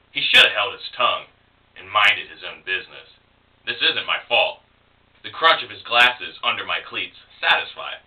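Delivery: measured poem recital in short phrases; lightly acted persona-poem reading; poetry reading. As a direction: read it as the antagonist's confession, phrase by phrase. Reads persona poem as antagonist.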